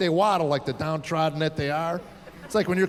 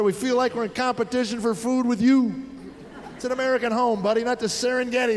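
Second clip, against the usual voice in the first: mildly stern, a bit higher fatherly lecture; lecturing dad; 3 semitones higher than usual. Retold or imitated. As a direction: give the big talk to the son. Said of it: "you say to him".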